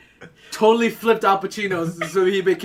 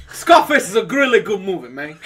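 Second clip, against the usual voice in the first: put-on Al Pacino accent; 5 dB louder than usual. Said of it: "you had the Al Pacino accent there".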